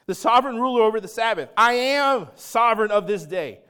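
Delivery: loud, commanding declaration; sovereign proclamation. Retold or imitated. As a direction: proclaim it as the ruler of the day. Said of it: "Jesus is saying".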